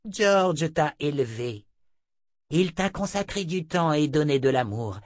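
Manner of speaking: imperious witch reproaching; reproachful seer. Acted. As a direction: shame him in a high, earnest voice. Narrator voices Chota the seer.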